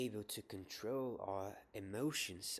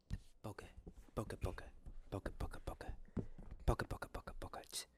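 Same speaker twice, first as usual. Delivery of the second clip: the word boggart whispered again and again; whispered repetition; 4 semitones lower, faster than usual. Acted. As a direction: hypnotic whisper, a chant of boggart. Trigger-word repetition for focus.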